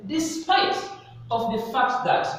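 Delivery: rising "Despite" before the slip "of the fact that"; wrong version first. Shown as a demonstration. Teacher to class, modelling the wrong phrase, rising. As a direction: offer the mistaken "Despite of the fact that" with a lift.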